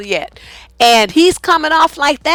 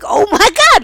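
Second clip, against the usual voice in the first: exasperated disbelief; 9 semitones higher, 5 dB louder than usual. Retold or imitated. Exasperated reaction.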